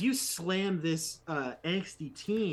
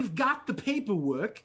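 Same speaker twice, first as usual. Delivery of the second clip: rough thug voice; 7 semitones higher, 4 dB louder than usual. Acted. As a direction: yell across to the marine like a rowdy goon. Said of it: "I don't know why they sound like that".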